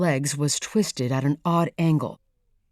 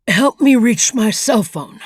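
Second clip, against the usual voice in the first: calling loudly; 6 semitones higher, 8 dB louder than usual. Acted. Calling over screaming wind.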